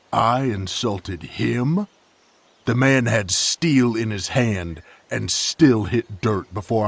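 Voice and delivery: can't believe he's being blamed; incredulous anger. Acted. Disbelieving anger at accusation.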